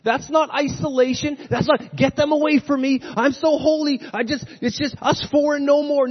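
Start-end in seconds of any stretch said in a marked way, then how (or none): 1.9-6.1 higher, snooty holy-huddle voice; a hammed-up pious snob, higher and louder; mock holier-than-thou. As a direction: sneer like a smug insider pushing people away. Mocking holier-than-thou church people.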